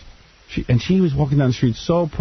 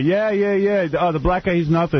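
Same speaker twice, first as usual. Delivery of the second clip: mock big-shot actor; 5 semitones higher than usual. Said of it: "You tell her".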